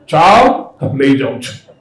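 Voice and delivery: put-on a scary bull god coming to take the boy; stern Nandi. Imagined Nandi threatening child. (નંદીનો ડરામણો અવાજ)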